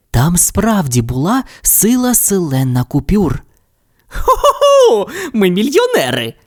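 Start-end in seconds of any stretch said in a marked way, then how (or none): 4.1-6.3 ho-ho-ho with greedy glee; gleeful laugh. Acted. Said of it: "розсміявся Сільвестр".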